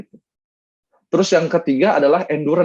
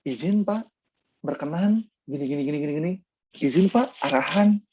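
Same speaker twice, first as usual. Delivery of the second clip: deferential formal address. Retold or imitated. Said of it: "komunikasinya benar-benar harus kayak".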